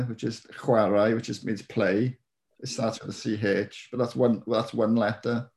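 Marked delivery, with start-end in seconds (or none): 0.6-1.1 "chwarae" with a throaty Welsh ch; "chwarae" starting with a rasping ch sound; Welsh pronunciation. Shown as a demonstration. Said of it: "And C H is a letter".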